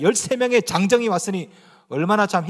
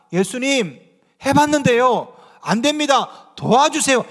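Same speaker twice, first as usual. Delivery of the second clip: earnest plea; 4 semitones higher, 4 dB louder, slower than usual. Retold or imitated. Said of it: "이걸 해야지".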